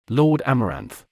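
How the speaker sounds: a serpent-like, sinister name; slithering. A narrator's reading. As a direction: let the name slither out like a snake. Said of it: "said as a slither".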